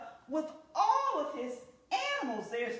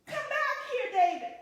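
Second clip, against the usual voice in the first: put-on high, loud call after a runaway child; 9 semitones higher, 5 dB louder than usual. Mother calling after David as he runs away, high loud call. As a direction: shout after him to come back.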